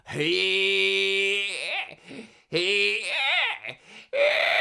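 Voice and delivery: hey rising to a high shouted cry; building twangy hey. Shown as a demonstration. Coach demos the voice, hey building to a shout. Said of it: "the beginning of the Homemade voice".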